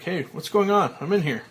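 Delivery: loud alarmed call. Acted. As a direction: shout to be heard through the lid. Trapped in coffin calling out.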